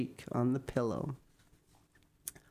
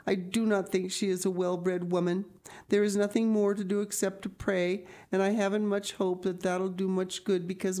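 put-on higher-pitched girl's earnest complaint; Anne's indignant lament; 4 semitones higher, faster than usual. Anne complains to Marilla about Missus Barry, indignant lament. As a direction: voice a dramatic girl pouring out grievances. Voices Anne's speech in story.

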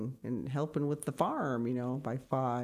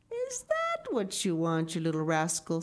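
teasing tailor; 2 semitones higher than usual. Acted. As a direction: tease the little rascal playfully. Tailor teases the boy.

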